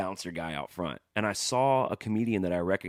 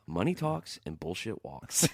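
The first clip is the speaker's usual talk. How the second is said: slow, higher, deadpan movie-quote delivery; Spinal Tap line; 7 semitones higher, slower than usual. Retold or imitated. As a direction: drawl the line out like a film catchphrase. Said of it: "the line from, uh, Spinal Tap".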